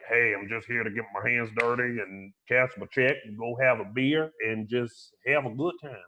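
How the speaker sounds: lightly voiced laid-back working guy; blue-collar guy. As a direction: toss it off like an easygoing worker. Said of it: "like, this blue-collar, nonchalant, like".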